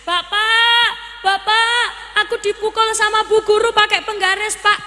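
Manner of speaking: put-on high whiny child complaining to father; crying child. Child crying home to father, high whining. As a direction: whimper it like a kid tattling. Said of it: "anaknya nangis".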